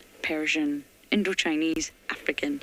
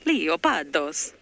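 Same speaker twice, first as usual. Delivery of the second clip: Leopardos slow and a bit louder, in a mock Italian accent; 4 dB louder, slower than usual. Shown as a demonstration. Guide retrying the Greek word, playful Italian accent. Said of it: "I think that sounds more Italian".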